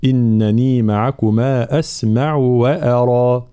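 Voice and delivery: slow recited line; Quran recitation. Shown as a demonstration. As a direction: recite slowly and carefully. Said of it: "في قوله تعالى". (تلاوة بطيئة)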